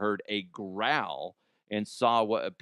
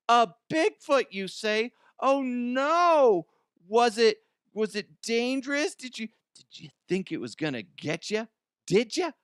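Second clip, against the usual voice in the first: much higher and louder, a hammed-up frightened voice; mock-frightened character; 10 semitones higher, 5 dB louder than usual. Host teasing the teens' Bigfoot claim in a shrieking mock voice. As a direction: gasp like a silly cartoon scaredy-cat.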